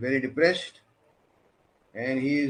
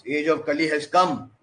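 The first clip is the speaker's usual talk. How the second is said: lightly acted plea, raised and louder; praying; 3 semitones higher, 4 dB louder than usual. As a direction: implore the Lord in a retold prayer. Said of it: "he's playing".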